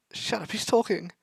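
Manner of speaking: high, slow, insistent; excited hush. Acted. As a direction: shush them, eyes on him. Fangirl hushing narrator.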